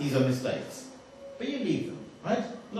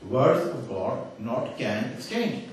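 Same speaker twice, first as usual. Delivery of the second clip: very slow, with "not can" set apart; slow deliberate misquote; 3 semitones lower, much slower than usual. Retold or imitated. Speaker showing swapped words to audience, slow and deliberate. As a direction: lay out each word slowly. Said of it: "he's transposed the can and the not".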